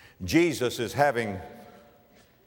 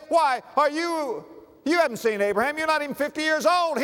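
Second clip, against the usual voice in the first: high, fast mocking challenge; scoffing accusers; 12 semitones higher than usual. The Jews scoffing at Jesus, high and mocking. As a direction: scoff at him in disbelief.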